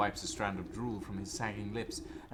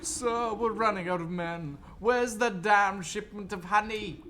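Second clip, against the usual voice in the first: higher, urgent soldier; panicked soldier voice; 11 semitones higher, 8 dB louder than usual. Acted. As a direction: report in a rush. Soldier reports to officer.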